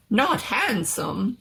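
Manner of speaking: slow incredulous doctor; offended doctor, slow. Acted. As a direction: repeat it slowly in disbelief.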